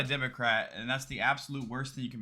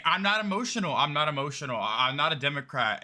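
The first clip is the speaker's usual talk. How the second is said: mocking imitation. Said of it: "he's saying".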